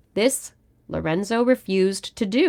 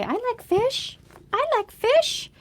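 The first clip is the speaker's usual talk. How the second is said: much higher, squeaky cat voice; voicing the cat. Owner voicing her cat who wants fish, high squeaky cat voice. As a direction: speak for the cat in a tiny high voice, eager for fish. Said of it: "You hear the fish talk and you say".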